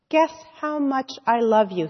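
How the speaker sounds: a hint of an eager small child; little hare's voice. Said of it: "he said".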